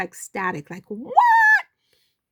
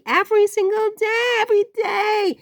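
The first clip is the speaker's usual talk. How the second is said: exasperated exclaim; 11 semitones higher, 4 dB louder than usual. Real, not acted. High loud exclamation.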